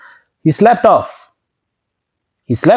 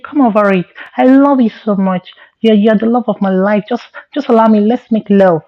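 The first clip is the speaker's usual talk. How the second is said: a hint of a pleading girl, higher; girly voice; 5 semitones higher than usual. Possessed friend pleads with him in a girly voice. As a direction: beg sweetly like a lovesick girl. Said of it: "he started talking like a girl".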